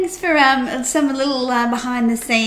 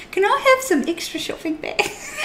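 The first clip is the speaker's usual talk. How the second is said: higher customer voice with laugh; entitled customer; 10 semitones higher than usual. Pretend. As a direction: ask like a cheeky shopper. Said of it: "bad customer behaviour".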